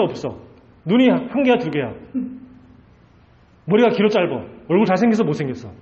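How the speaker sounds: taunting string of challenge questions; lightly acted jeering, each question tossed out; mocking Pharaoh. Pharaoh demands to see where God is, mocking. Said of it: "하나님을 지금 바로 왕이 완전히 조롱하고".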